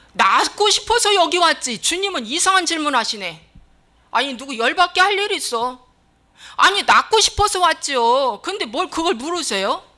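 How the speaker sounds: mock-offended protest; indignant retort. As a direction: grumble back as the offended patient. Acting out the offended sick man.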